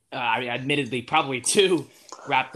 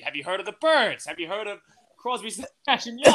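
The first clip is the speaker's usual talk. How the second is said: higher, louder, building to a shout; hammed-up dad pushing his old bands; mock excited dad; 7 semitones higher, 5 dB louder than usual. Dad quizzing son's friends on a band, building to a mock shout. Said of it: "He's like".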